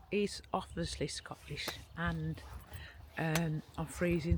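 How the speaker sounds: shivering from the cold. Real, not acted. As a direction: teeth chattering with cold. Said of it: "so I'm talking a bit weird".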